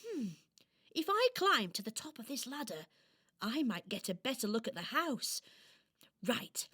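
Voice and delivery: high doll voice thinking aloud; marvel, then wonder if you'll make it; wondering little doll. Acted. Doll climbs and looks out.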